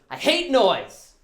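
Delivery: high, slow, whiny mock voice of the roommate; Michelle's complaint. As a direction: stretch it out high like a fussy roommate. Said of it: "She goes".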